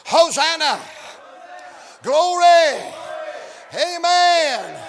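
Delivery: shouted acclamations of praise; acted jubilant cries; crowd screaming. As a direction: shout each word out like the cheering crowd. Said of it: "screaming to the top of their voice".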